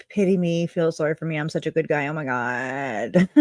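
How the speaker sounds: lightly voiced pity-me act, dragging out the last words; mock self-pity. Mock self-pitying quote of Tim.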